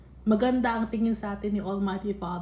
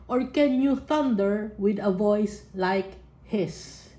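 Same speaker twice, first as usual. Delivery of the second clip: slow, weighty reading; slow scripture reading; slower than usual. Acted. Preacher reading God's thunder challenge, slow. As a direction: let each word land.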